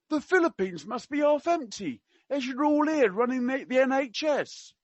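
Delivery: high mock Cockney, slowing at the end; attempted Cockney. Quoting the prince to a nurse, in attempted Cockney. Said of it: "I can't do Cockney. I will try my best".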